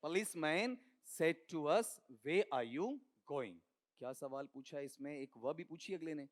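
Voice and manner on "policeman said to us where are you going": slow careful reading. Shown as a demonstration. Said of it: "इसका उच्चारण करो".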